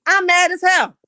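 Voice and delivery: loud anger. Real, not acted. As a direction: declare it loudly, fed up.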